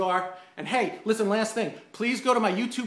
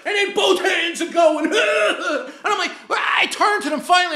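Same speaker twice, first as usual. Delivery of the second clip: laughing; 11 semitones higher, 7 dB louder than usual. Real, not acted. Laughing while retelling.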